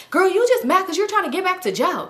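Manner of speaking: high-pitched mock sass; sassy, high-voiced jab; imitated taunting accusation. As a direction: needle her, imitating a catty friend. Imitates friend's jab in quarrel.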